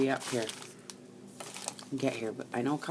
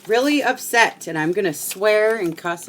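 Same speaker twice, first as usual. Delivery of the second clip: "really upset" jumps much higher and louder, falling at the end; mock upset outburst; 7 semitones higher, 10 dB louder than usual. Crafter warning viewers she will cuss, mock loud outburst. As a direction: burst out on "really" in playful exaggerated dismay.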